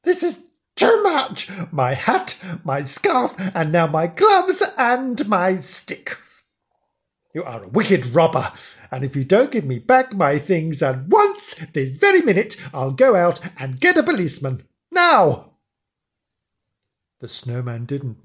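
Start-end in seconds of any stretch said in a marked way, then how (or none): 0.0-6.2 exasperated, mounting indignation; tally up each outrage crossly; fed up and affronted; indignant complaint. Acted. Flange confronts snowman over his things. 7.3-15.6 huffy warning ending in a shout; indignant threat. Acted. Flange threatens the silent snowman.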